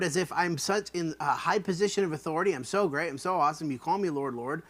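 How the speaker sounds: lightly sarcastic grandeur; mock self-importance. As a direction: puff it up a little. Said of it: "the ludicrousy of this".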